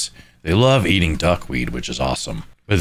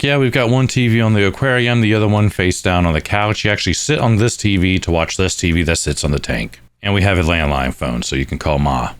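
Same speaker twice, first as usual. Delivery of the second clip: mock owners' voice. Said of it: "They're like".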